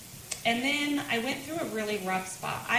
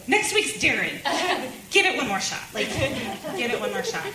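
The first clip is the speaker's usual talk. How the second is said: laughing coax; 4 semitones higher, 5 dB louder than usual. Retold or imitated. Coaxing husband, laughing.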